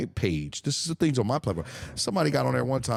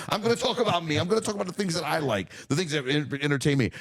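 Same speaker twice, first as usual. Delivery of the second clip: defiant rant; 5 semitones higher than usual. Real, not acted.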